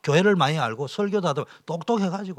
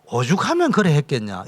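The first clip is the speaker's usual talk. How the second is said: sympathetic remark voiced; 7 dB louder than usual. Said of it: "이래야 되는 거 아니겠어요".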